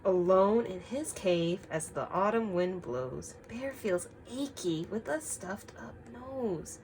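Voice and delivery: slow storytime read-aloud; story reading. Acted. Teacher reads the picture book to the class, slowly. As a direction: read it gently to the children.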